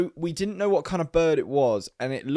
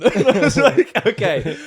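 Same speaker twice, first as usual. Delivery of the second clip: laughing; 9 semitones higher, 7 dB louder than usual. Real, not acted. Laughing through the retelling.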